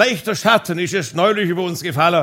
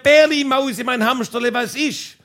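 higher, lightly called-back endearments; mock shouting back; 5 semitones higher than usual. Wife in the garden back to husband, mock shouting back. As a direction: call back in a put-on high voice. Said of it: "sie hat zurückgeschrien".

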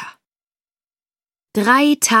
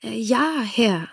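zögernde Tochter; 2 semitones higher, slower than usual. Acted. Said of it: "sagte die Tochter".

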